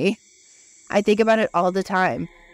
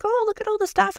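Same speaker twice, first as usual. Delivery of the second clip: much higher, airy sightseeing voice; mock amazement; 14 semitones higher than usual. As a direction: gush like a wide-eyed tourist. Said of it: "And we're like".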